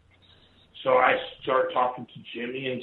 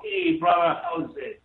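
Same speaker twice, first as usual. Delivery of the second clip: much higher, sing-song Hawaiian "Hey, brother"; Hawaiian greeting. Retold or imitated. Showing the host how locals greet, Hawaiian pidgin. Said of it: "that's how people talk here in Hawaii".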